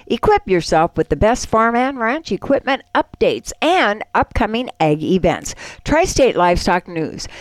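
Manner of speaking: upbeat sponsor read for the listeners; radio ad read. Acted. Radio host reading the newspaper ad to listeners, bright ad-read manner. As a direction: sell it like a radio spot.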